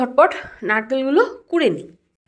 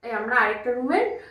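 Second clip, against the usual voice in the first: hushed and quiet; whispering on the phone; 10 dB quieter than usual. Real, not acted. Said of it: "কেন এত আস্তে বলছি?".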